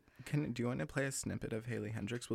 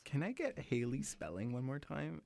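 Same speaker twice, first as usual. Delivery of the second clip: calling out; 3 semitones higher, 5 dB quieter than usual. Real, not acted. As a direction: call it out to the booth. Calling to producer.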